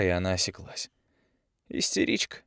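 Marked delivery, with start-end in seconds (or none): 1.7-2.4 contemptuous hiss, barely voiced; scornful young man's hiss; hissed through teeth. A narrator's reading. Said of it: "процедил Андрей".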